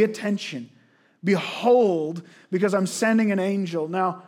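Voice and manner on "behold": "Behold" called out louder as a command; emphatic behold. Shown as a demonstration. Preacher commanding the congregation, a loud ringing "Behold". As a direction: proclaim "Behold" firmly to the room.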